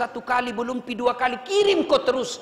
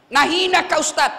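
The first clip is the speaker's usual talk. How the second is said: louder, higher mock taunt; mock insult; 6 semitones higher, 6 dB louder than usual. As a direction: play someone insulting the preacher. Acting out an insult scenario. (hinaan pura-pura)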